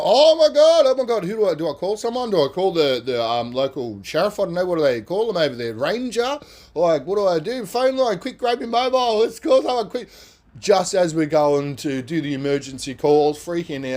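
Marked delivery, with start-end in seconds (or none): 0.0-10.1 high, loud, scrambling cries for help; high-pitched retold panic; frantic panic. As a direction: babble like you've lost control.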